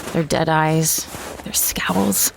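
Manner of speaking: whispered under the breath; hushed. A narrator's reading. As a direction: breathe it out, barely voiced. Narrator hushed over grim locals.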